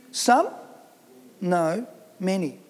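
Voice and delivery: 'some?' lifted as a question, then 'many' set down low and firm; stress on many. Shown as a demonstration. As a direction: correct some with a firm MANY. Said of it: "not, not some".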